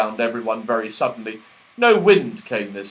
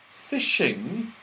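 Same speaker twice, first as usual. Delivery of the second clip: scornful questioning rise; disgusted; 5 semitones higher, 4 dB quieter than usual. Acted. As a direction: sneer the word. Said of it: "said Joe in disgust".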